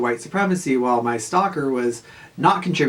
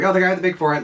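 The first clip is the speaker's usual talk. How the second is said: higher, sneering mock quote; 6 semitones higher, 3 dB louder, much faster than usual. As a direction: mimic her taunting tone. Stalker mocked retold.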